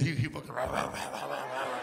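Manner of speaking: imitated barking. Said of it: "He barked like this".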